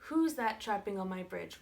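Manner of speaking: troll's roar. Acted. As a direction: challenge the trespasser as the troll. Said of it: "roared the troll".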